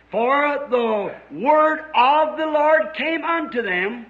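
slow, measured, weighty Bible verse; scripture recitation. Real, not acted. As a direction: recite it solemnly with long spaces between phrases.

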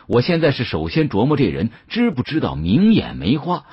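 plain reading voice

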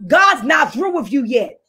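rising and falling pulpit declaration; fervent sermon voice; preaching. Acted. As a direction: preach it, lean on the key words.

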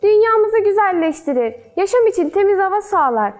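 a hint of children answering teacher; lightly voiced schoolchildren answering. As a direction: list answers brightly as a class, lightly acted.

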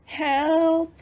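high, strange creature's cry for help; groaning creature. Acted. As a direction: groan it out like a trapped monster. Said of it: "the groan seemed to say".

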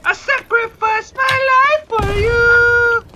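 high, drawn-out wail of sacrifice; mock-heroic cry. Mock protest to teammate in game.

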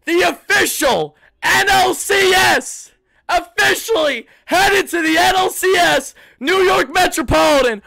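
high, shouted hype-man intro; hyped-up announcement. Real, not acted. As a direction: shout it out to launch the show. Hyping up the official post-game jingle.

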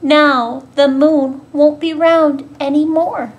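mildly dismayed little mouse; storybook worry, voiced out clearly; dismayed cry. A narrator's reading. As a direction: lament it with a lift in volume. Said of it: "cried Little Mouse".

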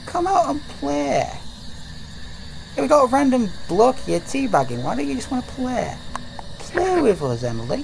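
creepy kidnapper. Acted. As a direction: lure the child out, lightly creepy. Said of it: "You sound like a kidnapper".

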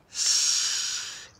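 a soft unvoiced shh; hushing whisper. Girl hushing her friend near the rabbits, whispered shh. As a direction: hush them so the rabbits stay.

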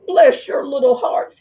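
high, pleading fox; crying out. Acted. Fox on his knees thanking the mice, pleading. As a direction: gush with desperate thanks. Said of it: "he cried".

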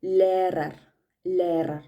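German teacher demo of ലേറർ; German word Lehrer. Shown as a demonstration. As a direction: model the German ലേറർ slowly for learners. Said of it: "എല്ലിന് example വരുന്നത്".

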